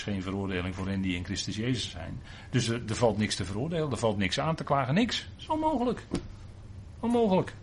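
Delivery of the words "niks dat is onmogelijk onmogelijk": high exclaimed impossibility. Real, not acted. Preacher insisting to listeners nothing can accuse them, high exclaim. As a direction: voice leaps up high on niks and onmogelijk.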